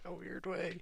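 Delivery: a whispered aside to himself. Real, not acted. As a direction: breathe it like a guilty admission. Whispered half-confession.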